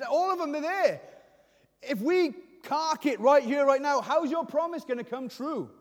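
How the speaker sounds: impassioned acted prayer; urgent challenge to God. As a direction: press God hard for an answer. Acts out Jacob challenging God.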